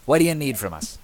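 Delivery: hearty shopkeeper welcome. Acted. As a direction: boom out a big friendly welcome. GM voices Bing brothers greeting.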